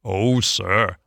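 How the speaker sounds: understated tearful plea; a touch of crying, appealing for pity; tearful Toad. A narrator's reading. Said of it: "crying afresh".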